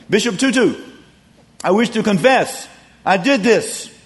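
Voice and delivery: a hint of a penitent man stating his guilt; a lightly acted confession; solemn confessor. Confessor stands before Tutu.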